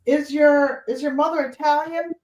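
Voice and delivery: high-pitched, curious Boston voice; Boston accent. Retold or imitated. Dog buyer asking about mother's background, imitated Boston accent. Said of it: "with her Boston accent".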